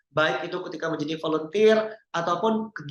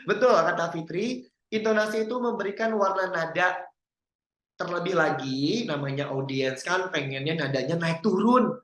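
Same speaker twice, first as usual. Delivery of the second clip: ordinary talk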